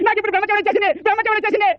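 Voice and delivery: high mock lament; wailing. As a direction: wail it like a comic sufferer. Wailing about his misfortune. (ఏడుపు గొంతుతో వాపోవడం)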